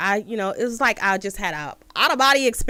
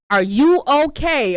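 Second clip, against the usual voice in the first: concerned stranger; 5 semitones higher, 6 dB louder, slower than usual. Retold or imitated. Stranger knocks at car window.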